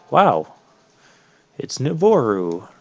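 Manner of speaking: half-hearted feigned surprise; acted surprise. Player who knows the game greets the reveal, mock surprise. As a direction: pretend you didn't see it coming. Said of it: "I know I'm trying to act surprised".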